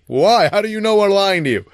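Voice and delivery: put-on high, loud indignant kids; protesting kids. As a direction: whine it like caught-out children. Kids protesting, voiced by coach.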